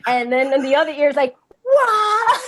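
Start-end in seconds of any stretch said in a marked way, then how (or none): 1.6-2.4 high, loud laughing "what"; a hammed-up high squeal of disbelief. Wife's voice in other ear.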